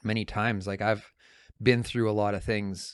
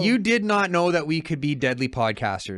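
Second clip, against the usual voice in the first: playful teasing; 7 semitones higher, 6 dB louder than usual. Real, not acted. Teasing disbelief at partner's claim.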